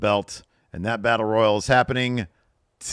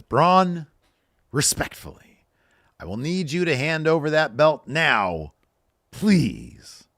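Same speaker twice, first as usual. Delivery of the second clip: loud, high, forced through gritted teeth; 8 semitones higher, 5 dB louder, slower than usual. Retold or imitated. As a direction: grit your teeth and push it out. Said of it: "through gritted teeth says".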